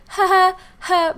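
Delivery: high, tight uncomfortable laugh; nervous laughter. Retold or imitated. Teen worker facing threatening customer, nervous high laugh. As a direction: laugh nervously to cover fear. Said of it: "really uncomfortable, nervous laughter".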